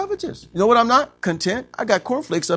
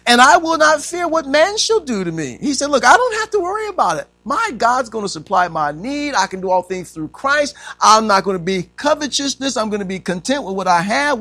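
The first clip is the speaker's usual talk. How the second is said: loud, high bold declaration; preacher quoting bold confidence, loud and high; bold preaching; 9 semitones higher, 6 dB louder than usual. Acted. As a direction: proclaim it boldly. Preaching Paul's bold words.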